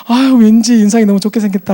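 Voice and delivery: high, loud imitated gushing; delighted compliment. Attendant learning he is a pastor, imitated delighted gushing. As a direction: gush like a pleased young attendant.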